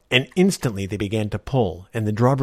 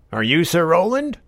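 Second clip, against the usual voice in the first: higher, lightly voiced old man; a curious little old man; 7 semitones higher, 5 dB louder than usual.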